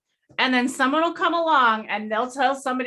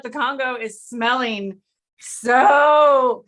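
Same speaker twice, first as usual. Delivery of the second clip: excited; 5 dB louder, much slower than usual. Real, not acted. Raving about the smell.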